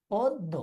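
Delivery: পদ্য as "poddo", close o; close o sound. Shown as a demonstration. Teacher showing how it should sound, পদ্য with close o. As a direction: round both vowels of পদ্য. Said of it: "এটার উচ্চারণ কিন্তু এরকম হবে".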